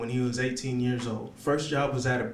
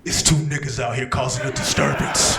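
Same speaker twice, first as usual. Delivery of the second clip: urgent complaint to the police as a Karen. Acted. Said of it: "this is my Karen voice".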